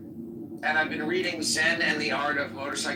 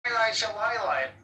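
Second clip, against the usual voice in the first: imitated Jewish accent, slightly higher; 4 semitones higher than usual. Showing how the greeting was said, Jewish accent. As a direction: put on a playful Jewish accent. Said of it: "Jewish accent, like the way that you were saying it".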